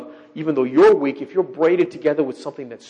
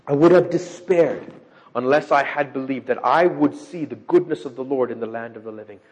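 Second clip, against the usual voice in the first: scripture reading; 3 semitones lower than usual. Acted. Preacher reading the psalm's ending to the congregation, solemnly. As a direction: read it out as holy words.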